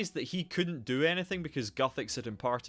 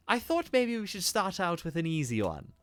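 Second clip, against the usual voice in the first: advisor voice; 4 semitones higher than usual. Acted. Advisor character voiced in dialogue.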